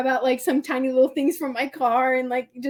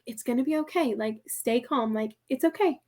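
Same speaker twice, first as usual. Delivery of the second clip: self-soothing; 2 semitones lower, 7 dB quieter than usual. Retold or imitated. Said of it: "I was breathing".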